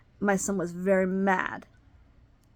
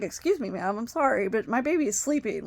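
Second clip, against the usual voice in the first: polite request. Retold or imitated. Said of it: "I didn't even say it that way".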